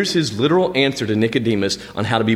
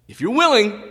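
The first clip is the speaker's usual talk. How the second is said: pleading leper; 10 semitones higher than usual. Acted. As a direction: cry out the plea high. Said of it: "So you know what he says?".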